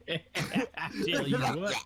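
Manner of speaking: Southern drawl. Acted. Friend coaches the Southern voice, playful exaggerated Southern drawl. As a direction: draw it out Southern, laughing.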